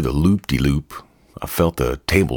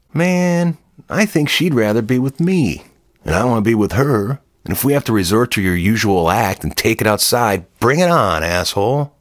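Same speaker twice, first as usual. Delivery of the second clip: defiant challenge; 7 semitones higher than usual. Acted. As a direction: square up to the bully. Narrator challenging Marlon.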